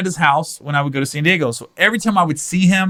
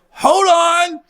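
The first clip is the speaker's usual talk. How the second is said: high mock protest; 13 semitones higher, 3 dB louder than usual. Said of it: "I go".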